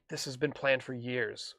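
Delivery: soft, slow, tender retelling; quietly coax, as if sharing something dear; imitated endearment. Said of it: "says this with such endearment".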